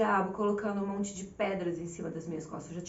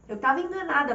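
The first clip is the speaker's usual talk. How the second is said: "Eu tava enganada" louder, punching "tava"; emphatic admission; 4 semitones higher, 6 dB louder, faster than usual. Real, not acted. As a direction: confess it with force on "tava". Emphatic confession.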